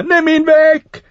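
hoch, laut und langsam gedehnt; langgezogener Schrei. A narrator's reading. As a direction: zieh den Schrei verzweifelt in die Länge. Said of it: "schrie er". (der Prinz fleht schreiend, langsam und gellend)

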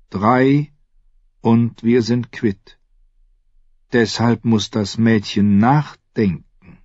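slow, deliberate stranger; measured cryptic assassin voice; slow mysterious man. Acted. Jaqen speaks slowly.

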